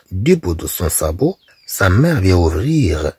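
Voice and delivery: slow, careful reading of a French tale; story reading. A narrator's reading. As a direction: read each phrase slowly for learners. Teacher reads the French text aloud. (قراءة قصة ببطء ووضوح)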